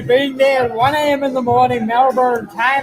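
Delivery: put-on Australian accent. Teasing the friend on Melbourne time, Australian accent. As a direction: stretch it into a mock Australian accent. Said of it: "That's my Australian accent on there".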